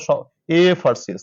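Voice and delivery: এএফআরসিএস drawn out slowly, stretching the opening e; slow sounding out FRCS. Shown as a demonstration. Teacher drawing out the first sound of an abbreviation. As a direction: stretch এএফআরসিএস to show it begins with e. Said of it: "উচ্চারণ করো".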